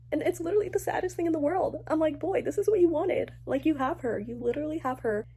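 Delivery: high, fast, pleading at the character; exasperated plea. Real, not acted. Reader scolding Warner fondly, high and exasperated.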